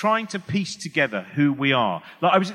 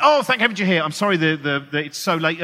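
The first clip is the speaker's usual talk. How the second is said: relieved producer; 2 semitones higher, 5 dB louder than usual. Acted. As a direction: gush with relief, then stumble through an apology. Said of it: "The producer went".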